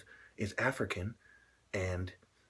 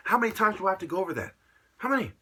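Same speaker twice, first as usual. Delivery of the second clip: fast, loud and high, exasperated; angry shout; 10 semitones higher, 8 dB louder, faster than usual. Real, not acted. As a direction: fire it off in a furious rant. Ranting, repeating himself angrily.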